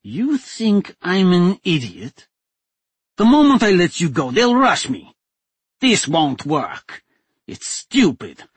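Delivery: a cornered man refusing the deal; lightly voiced desperate captor. A narrator's reading. Captor telling the duchess the deal won't work, tense.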